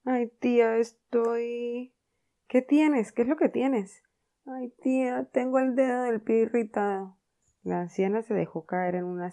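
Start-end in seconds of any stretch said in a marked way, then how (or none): 0.0-1.9 higher, louder fake whimper; mock suffering moan. Tom faking pain to Aunt Polly, hammed-up. 2.5-4.0 high, loud anxious questions; alarmed questioning. Acted. Aunt Polly frightened for Tom, alarmed. 4.5-7.2 higher, louder fake whimper; mock suffering moan. Tom faking pain to Aunt Polly, hammed-up.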